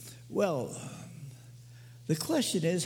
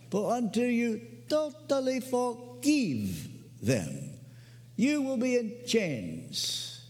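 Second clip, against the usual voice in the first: put-on Romanian accent; 3 semitones higher, slower than usual. Preacher imitating his friend's command to forgive, Romanian accent. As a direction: imitate a solemn Romanian, stretching each phrase. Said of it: "I can hear him now in his Romanian accent".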